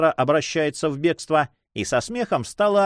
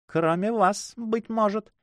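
higher, lightly disdainful and distinct; splendid disdain; 10 semitones higher, slower than usual. A narrator's reading. Young woman to the count, naming her exception, disdainful. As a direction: toss it off with airy disdain. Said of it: "отчётливо произнесла она с великолепным пренебрежением".

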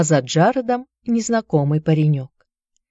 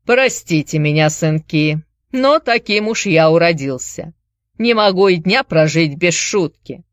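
put-on Irish accent. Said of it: "с сильным ирландским акцентом".

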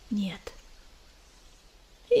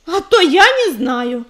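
impatient hiss; 2 semitones higher, 6 dB louder, slower than usual. Acted. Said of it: "Потеряв терпение, зашипела Белка".

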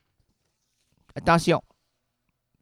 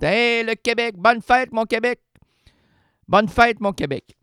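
festive cheer; 7 semitones higher, 4 dB louder than usual. Acted. Celebratory toast to Quebec.

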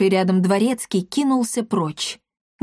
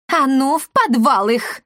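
higher, louder angry order; сердитый приказ; 5 semitones higher, 3 dB louder, slower than usual. A narrator's reading. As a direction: bark the order at the servants. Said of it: "сердито приказала она". (сердито приказывает слугам, громче обычного)

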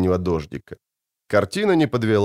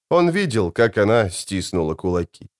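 usual speaking voice

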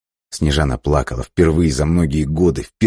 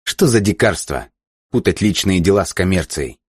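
higher, parroting his indignation; throwing the captain's words back at him; mocking echo; 5 semitones higher than usual. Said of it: "издевательски сказал он". (издевательски передразнивая)

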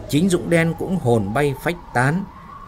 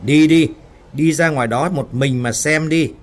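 urging; 3 semitones higher, 5 dB louder than usual. Acted. Woman worker pushes Dũng out into the storm, urging. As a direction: urge him out forcefully.

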